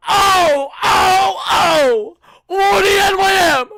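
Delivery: high, loud, near-crying shout of joy; euphoric shout. Real, not acted. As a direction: scream it out like you just won. Celebrating the Mets clinching.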